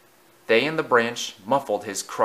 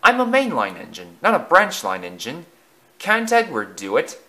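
objecting; 4 semitones higher than usual. Acted. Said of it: "objected Alec Greedy".

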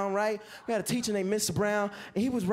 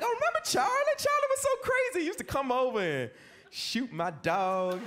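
high, fast gushing mock voice then slowing; mock gossip voice; 3 semitones higher than usual. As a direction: gush like a nosy acquaintance. Mocking quote of people.

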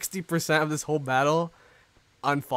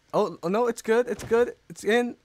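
high, rising commentator excitement; excited live call; 6 semitones higher, 4 dB louder than usual. Real, not acted. Tennis commentator calling a ball in, excited and high.

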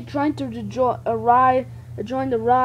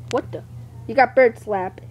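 usual speaking voice

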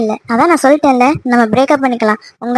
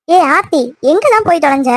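raised-pitch, exasperated call; irritated calling out; 2 semitones higher than usual. Acted. Calling for Aarthi who went missing, irritated calling out. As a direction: call out crossly for someone who has gone off. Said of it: "எதுக்குடி இப்ப இப்படி கத்திக்கிட்டு இருக்க".

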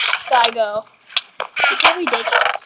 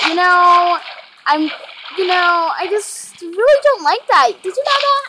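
mock scolding; 3 semitones higher, 3 dB louder than usual. Scolding enemy in put-on voice.

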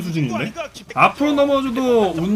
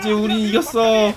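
excited shout; 3 semitones higher, slower than usual. Real, not acted. Cheering the win.

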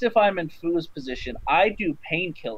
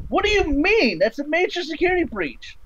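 much higher, hammed-up panic; mock alarm; 13 semitones higher than usual. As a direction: play the boss realizing the breach. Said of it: "he's gonna be like".

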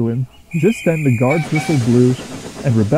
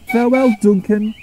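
chiming; 10 semitones higher than usual. A narrator's reading. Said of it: "chimed Rebecca".

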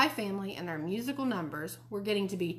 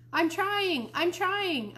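high, louder mynah echo; bird mimicking a holler; 10 semitones higher, 4 dB louder, much slower than usual. A narrator's reading. Mynah bird repeating Fudge's holler, bird voice. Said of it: "Uncle Feather repeated".

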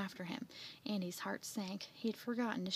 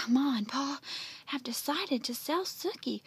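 higher, louder, broken by breaths; panting; 4 semitones higher, 4 dB louder than usual. Acted. Jeff telling Andy bad news after running, panting. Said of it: "Jeff panted".

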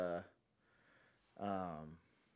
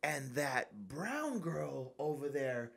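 put-on old man's complaint; 4 semitones higher, slower than usual. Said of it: "He goes".

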